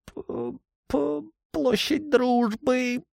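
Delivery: high, slow, frightened stammer; stammering captive. A narrator's reading. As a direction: blurt the address out in fear. Beaten thug confesses, stammering.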